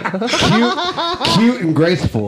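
laughing. Real, not acted. Laughing at friend's jumping.

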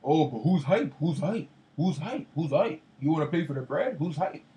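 quick, repeated indignant questions, mildly heated; retold hyped-up challenge. Player mocking an opponent who got upset over open shots, mildly riled. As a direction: mimic a worked-up player firing back. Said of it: "he was like / he got upset".

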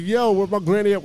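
mock yell of a lost seven-year-old; kid yelling. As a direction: shout for granny, lost and scared. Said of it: "I'm screaming in the dark".

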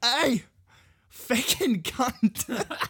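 high, loud, slow Australian greeting; Australian accent. Shown as a demonstration. Showing off one Australian phrase, broad accent. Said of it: "Australian, I can do".

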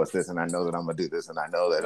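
flat, deadpan delivery; quick and soft, no tune at all; monotone. Shown as a demonstration. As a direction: drone it out with no melody. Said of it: "Why are you talking monotone".

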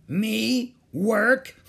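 high, incredulous pirate scoff into a laugh; scornful chuckling. Acted. Captain asked to work himself, mocking chuckle. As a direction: scoff loudly, then chuckle. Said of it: "Captain Bones chuckled".

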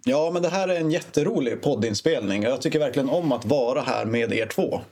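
mildly sarcastic, deadpan praise; lightly ironic compliment. Shown as a demonstration. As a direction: fake enthusiasm, barely put on. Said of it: "kan du visa ett exempel på sarkasm?".

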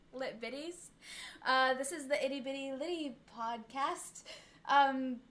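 shaky, half-giggled attempt at a British accent; a nervous first go at a British podcast host accent. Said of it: "I don't think I can do a British accent, but I'll try".

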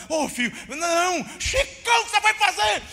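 high, loud mother calling out to stop her son; a mother pleading with her raging son, alarmed. Retold or imitated. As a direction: cry out to hold the boy back.

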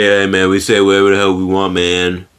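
lightly acted stoner; a hint of laid-back stoner; sounding high. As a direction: talk as if a bit high. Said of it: "you sound like you're high as hell".

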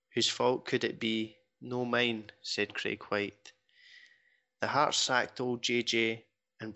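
reading a football poem aloud with a steady rhythm; rhyming poem recital. Acted. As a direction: recite the rhyming couplets for the podcast listeners. Reads a forum poem aloud.

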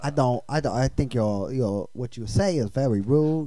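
lightly put-on Chinese-accented English; halting English with a mock Chinese accent. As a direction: play offended in a fake Chinese accent. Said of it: "Speak English".

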